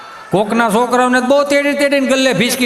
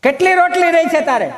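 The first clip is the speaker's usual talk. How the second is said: raised, high-pitched call; calling husband; 8 semitones higher than usual. Acted. Husband asking wife about rotis, high calling voice. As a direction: call through to the kitchen.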